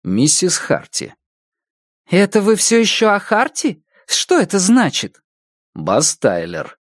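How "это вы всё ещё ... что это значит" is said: higher, puzzled online commenter; puzzled follower voice. Acted. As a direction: ask it baffled, in a higher voice.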